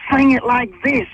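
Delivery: Australian twang; Aussie accent. Retold or imitated. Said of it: "That's a pretty good Aussie accent you're doing".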